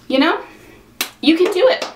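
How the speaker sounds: high, welling-up voice on the verge of tears; real emotion rising through the encouragement; getting emotional. Real, not acted. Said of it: "I don't know why I'm getting emotional".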